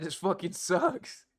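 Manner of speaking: slow mock whine of the complaint; imitating the clip. Streamer mimicking the video guy's complaint, slow mock whine. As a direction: drag it out, mildly mocking the guy. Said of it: "He said".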